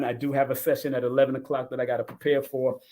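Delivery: ordinary delivery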